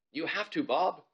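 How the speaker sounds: put-on bossy girl daring her friend; urging girl voice. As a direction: egg him on, bossy and eager. Ivalo urging Bob to jump.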